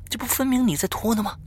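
alarmed accusation. A narrator's reading. Frightened boy accusing his friend of dragging the chopsticks, alarmed. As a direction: protest in a high, disbelieving voice. Acted accusation in ghost game.

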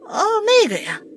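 lightly voiced old grandma; casual grandma voice. Grandma answers in story. (奶奶随口的语气)

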